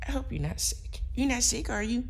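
put-on high, soft baby talk to a dog; silly clown. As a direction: coo at the puppy in a squeaky voice. Talking baby talk to her dog.

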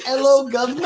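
put-on British accent. Teasing co-host about the accent, laughing mock British. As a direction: mimic the bad British accent back. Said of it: "Your British is".

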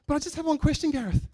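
high, loud imitation of an Indian friend's accent. Preacher imitating his Indian coworker, pronounced Indian accent. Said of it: "With a very pronounced Indian accent".

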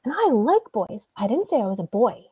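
imitating an indignant child setting someone straight; emphatic mimicked correction; retold exasperated insistence.

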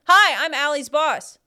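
slow, lightly voiced boss; barely changed boss voice; deliberately lame boss impression. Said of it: "My boss's favorite".

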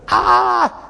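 short, high mock shriek; high-pitched little squeal of a scream; imitated child's scream. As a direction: scream like a terrified little girl, without full volume. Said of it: "Screaming as loud as she could".

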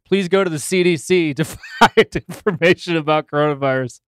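laughing. Real, not acted.

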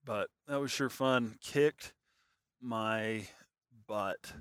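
"Kicked... my... butt" word by word; spaced-out emphasis on "Kicked my butt"; emphatic pauses. Real, not acted. Wry emphasis on a hard hike.

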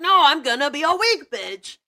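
high, loud whiny mock voice; whiny weak son voice. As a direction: whine back like a spoiled son. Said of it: "And he's like".

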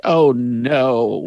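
drawn-out mock-dramatic cry; overacting. Co-host mimicking the film heroine's overacting, hammy. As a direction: ham it up like a bad actress. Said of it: "in her true overacting fashion".

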